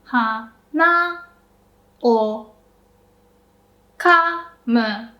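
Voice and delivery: up on na, down on o; chew flower version. Shown as a demonstration. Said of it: "we went up and down".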